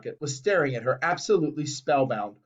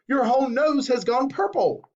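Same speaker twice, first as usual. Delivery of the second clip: shout; 8 semitones higher than usual. A narrator's reading. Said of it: "shouted Mister Beauregard".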